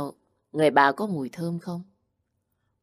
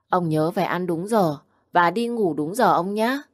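put-on high, bright child voice lecturing grandpa kindly; a small child repeating mum's advice; relieved little child; 3 semitones higher, 4 dB louder than usual. Little Vũ relieved, tells grandpa to eat and sleep on time, high child voice.

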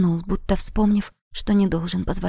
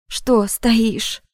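snapped; 3 semitones higher than usual. Acted. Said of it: "рявкнула на него".

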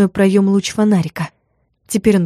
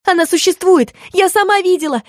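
much higher, shrieking protest; shrill scandalous yell; 11 semitones higher than usual. A narrator's reading. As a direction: shout back in a hysterical fit. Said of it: "скандально выкрикнула Мотя".

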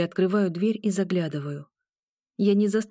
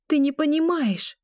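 protesting; 9 semitones higher than usual. A narrator's reading. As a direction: push back hard, upset. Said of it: "Протестую я".

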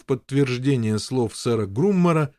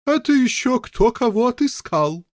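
hearty lady; 11 semitones higher, 4 dB louder than usual. Acted. Stout lady retorts.

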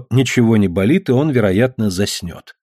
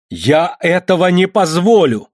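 higher, louder and slower, позволю dragged and falling; losing control of his anger; last angry yell at his father; furious shout; 8 semitones higher, 3 dB louder, slower than usual. Acted. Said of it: "ещё раз крикнул он".

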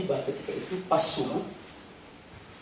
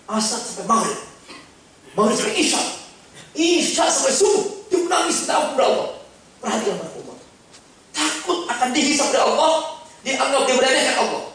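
rising impassioned preaching; 9 semitones higher, 5 dB louder than usual. Real, not acted. Preacher rises to a climax.

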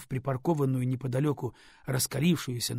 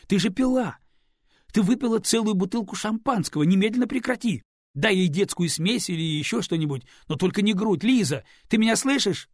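higher and louder, shouting in alarm; 7 semitones higher, 7 dB louder than usual. Acted. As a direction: yell at her to stop at once. Радислав в ужасе кричит на Лизу. (испуганный крик)

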